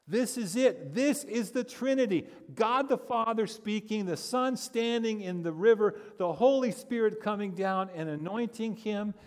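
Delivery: high, loud triumphant preaching; full-force preaching. Acted. Pastor to congregation, revealing the Trinity picture, in triumphant full-force preaching. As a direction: proclaim it as the big reveal.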